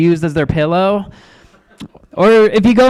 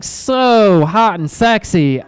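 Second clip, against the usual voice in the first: slow slip; much slower than usual. Real, not acted. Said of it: "I meant to say that would've been so bad".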